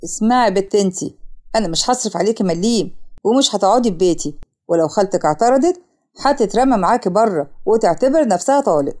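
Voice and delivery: low, threatening husband; stern anger. Acted. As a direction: lay down an angry ultimatum without shouting. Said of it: "والباب بيتفتح بعصبية". (تهديد بعصبية مكتومة)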